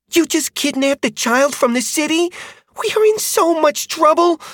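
put-on a dismayed young dragon rider; rider girl, upset. A narrator's reading.

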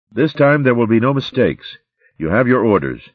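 high, cold commanding threat; menacing warlord. Acted. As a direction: give orders like a mad tyrant. Mad Eyes to his rat.

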